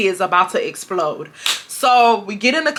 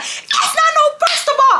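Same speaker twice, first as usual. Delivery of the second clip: mom going off. Retold or imitated. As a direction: drag out the scolding like a furious mom. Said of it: "she's going off".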